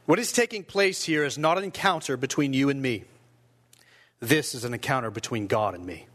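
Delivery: measured, emphatic dramatic reading; testimony reading. Acted. Persecuted pastor addressing his interrogators, lightly dramatised firm defiance. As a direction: read it out with firm, deliberate conviction.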